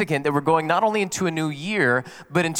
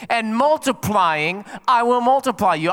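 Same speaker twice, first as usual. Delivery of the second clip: slow, raised, emphatic declaration; higher-pitched preacher's pronouncement; proclaiming God's promise; 4 semitones higher, 3 dB louder, slower than usual. Acted. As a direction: draw out MULTIPLYING, then ring out the promise.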